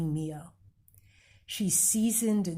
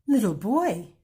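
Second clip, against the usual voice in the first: put-on louder, surprised call of little boy; exclaiming; 3 semitones higher, 6 dB louder than usual. Amu surprised to find the boy at her door, exclaiming. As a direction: greet him with a happy start. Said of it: "Amu exclaimed".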